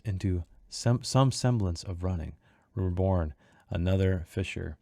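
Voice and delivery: measured, deliberate poem delivery; verse reading. A narrator's reading. Reading the chapter's epigraph to listeners, measured verse delivery. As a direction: read the verse gravely, line by line.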